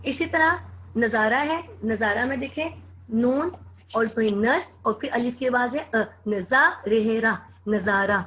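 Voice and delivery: teacher sounding out नज़ारा for dictation; sounding out letters. Shown as a demonstration. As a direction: say नज़ारा slowly as नज़ा, रे, रा, then the whole word. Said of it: "आप उसकी आवाज़ ज़रूर देखा करें".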